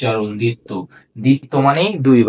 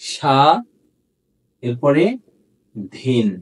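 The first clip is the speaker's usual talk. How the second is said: syllable by syllable; much slower than usual. Shown as a demonstration. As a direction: split the word into slow syllables. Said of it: "তাহলে এটা আমরা লিখব".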